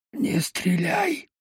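a tense, slow, pleading stage whisper; loud whisper. A narrator's reading. Baklan begs Lyonya not to shoot, loud whisper. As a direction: hiss it out in a loud whisper, begging. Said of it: "произнёс Баклан громким шёпотом".

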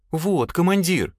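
high, drawn-out whimper; whining. A narrator's reading. Lad whines to his commander, whimpering. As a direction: whine it slowly to the boss. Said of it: "захныкал Клещ".

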